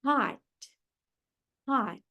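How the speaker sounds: "Hot" with a relaxed, almost a-like O; soft English O. Shown as a demonstration. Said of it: "Parece até um pouquinho de A".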